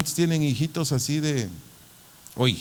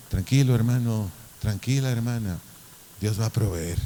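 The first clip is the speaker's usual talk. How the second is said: calm; 3 semitones lower than usual. Acted. Trusting pastor to the worried administrator, calm. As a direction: settle them down, trusting and unhurried.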